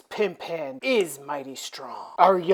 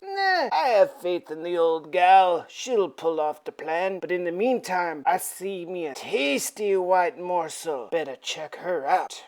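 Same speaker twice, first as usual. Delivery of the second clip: slightly lowered, unbothered Count; lightly voiced Dracula; 3 semitones lower, 4 dB quieter than usual. Dracula outside the window eyeing prey, lightly voiced smugness. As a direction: settle lower and softer as you go. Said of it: "Count Dracula can hear".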